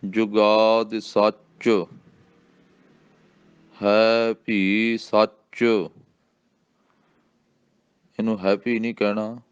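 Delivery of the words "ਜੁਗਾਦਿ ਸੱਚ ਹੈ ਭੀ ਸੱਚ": ਹੈ ਭੀ ਸੱਚ very slow; ਹੌਲੀ ਪਾਠ; slow recitation. Shown as a demonstration. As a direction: recite slowly for pupils.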